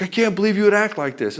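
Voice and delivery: protesting, pitched well up; mock indignation. Acted wife's protest to ultimatum.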